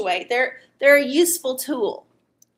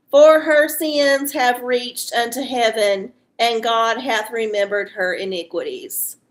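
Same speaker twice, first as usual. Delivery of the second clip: scripture reading; 4 dB louder than usual. Acted.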